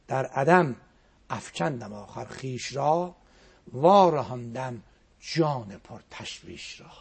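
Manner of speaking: slow, drawn-out recital of the verse; slow poetic chanting; slow poem recitation. Acted. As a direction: savour each word of the poem. Poem recited a second time.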